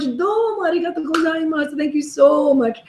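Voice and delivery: acted-out profuse thanking; effusive thanks. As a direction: re-enact gushing thanks to a generous fan. Re-enacts thanking the tipper profusely.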